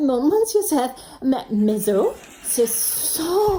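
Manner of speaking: faltering mock French accent; bad French accent. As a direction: stumble through a fake French accent. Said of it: "French, do the accent".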